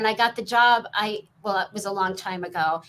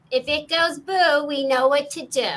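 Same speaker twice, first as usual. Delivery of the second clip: Janine Melnitz voice; 5 semitones higher, 4 dB louder than usual. Acted. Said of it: "Janine Melnitz".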